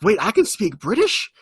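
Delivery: pleasantly stunned, lightly hammed-up; amazed, pleased retelling. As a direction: play an actor delightedly finding a new skill. Joey's delighted reaction, acted.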